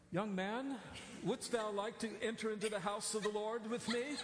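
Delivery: hammed-up King James preacher voice; lofty old-fashioned churchy address, lightly mocked; pompous pious invitation, tongue in cheek; mock formal calm. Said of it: "in my very calmest voice".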